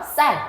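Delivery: 쌀 with a tense ㅆ after a stop; tensed s. Shown as a demonstration. Teacher showing how ㄷ collides into it, tense 쌀. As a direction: hit 쌀 as a tense double s. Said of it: "요렇게 발음한다는 거야".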